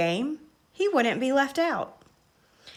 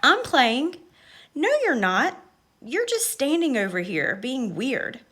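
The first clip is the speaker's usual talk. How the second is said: playground quarrel; 3 semitones higher than usual. Acted. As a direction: push back hard, childish. Kids arguing on playground.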